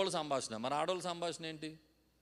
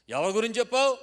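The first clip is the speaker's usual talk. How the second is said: loud, high-pitched interrogation; imitating a wife demanding an answer; serious demand; 10 semitones higher, 13 dB louder than usual. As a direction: fire the question out sharply. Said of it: "అందంట సీరియస్గా".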